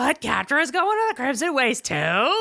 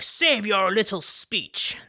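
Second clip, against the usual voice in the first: slow, low menacing villain; a hint of a cold overlord; 3 semitones lower than usual. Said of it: "Hordak is like".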